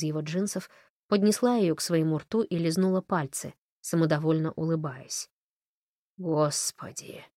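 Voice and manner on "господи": медленный тихий стон; простонать, растягивая слово. A narrator's reading. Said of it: "простонал Фрэнк". (протяжный тихий стон)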